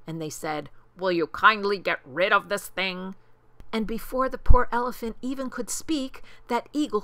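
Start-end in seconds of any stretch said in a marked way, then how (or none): 1.0-3.1 louder, put-on character voice; emphatic storybook monkey; monkey bully's request. A narrator's reading. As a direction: demand it with mock politeness. Monkeys hand eagle the clover.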